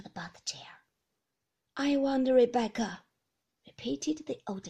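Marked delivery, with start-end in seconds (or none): 1.8-3.0 put-on loud, high, bewildered old woman; an old grandmother who doesn't recognise the guest; confused old lady.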